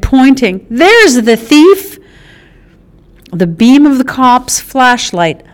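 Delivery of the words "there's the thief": loud, slow and higher accusation; shouted accusation. Acted. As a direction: spell out the blame for the police. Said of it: "Blue shouted".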